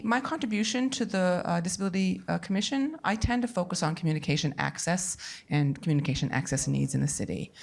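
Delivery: translation voice over. Real, not acted. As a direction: sign language interpreter voicing. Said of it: "you can hear the voice of a female interpreter who is interpreting into English for".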